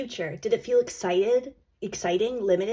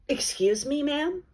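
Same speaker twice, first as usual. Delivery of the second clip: offended sass; 5 semitones higher, slower than usual. Pretend. Snapping back at ego thought.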